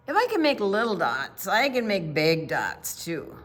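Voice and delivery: put-on a child who just found out she can; proud little painter; excited. Vashti's excited boast.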